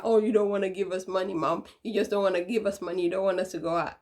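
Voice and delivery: fast, a touch of whining accusation; sulky kids. Retold or imitated. Kids accusing mom of keeping money, fast mild whine. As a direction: rush the complaint like sulky kids. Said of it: "they'll be like".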